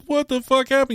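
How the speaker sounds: high, exasperated question; mock disbelief. Asking the returned roommate what happened, incredulous. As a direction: demand the story. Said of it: "I'm like".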